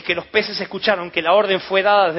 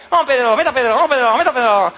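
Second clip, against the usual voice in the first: cheering; 5 semitones higher, 6 dB louder than usual. Acted. Friends cheering Peter on.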